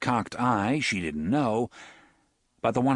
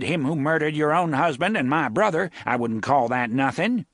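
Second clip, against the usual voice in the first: louder, higher accusation; mild accusing anger; 5 semitones higher, 4 dB louder than usual. Acted. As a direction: accuse her of helping the killer. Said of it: "Reimer accusing Susan".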